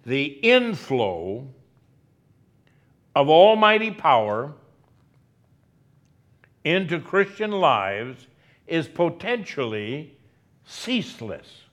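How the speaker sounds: lento, con pausas largas entre frases; slow, deliberate repeat. Shown as a demonstration. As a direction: spell it out slowly, phrase by phrase. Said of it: "Can I say that again?".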